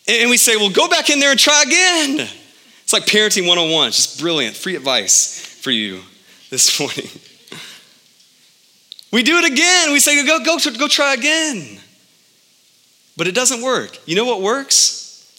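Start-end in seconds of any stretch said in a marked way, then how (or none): 0.6-2.3 mock dad brush-off. Dad dismissing child again. 10.3-11.8 mock dad shooing. Dad shooing kid again.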